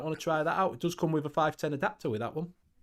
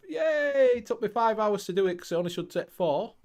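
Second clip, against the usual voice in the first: mock cheer; 4 semitones higher than usual. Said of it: "in his own little world of".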